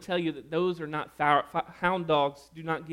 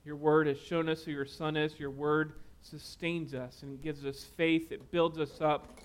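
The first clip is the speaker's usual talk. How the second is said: closing prayer; 3 dB quieter than usual. Acted. Pastor prays over the congregation, hushed and earnest. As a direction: pray quietly and sincerely.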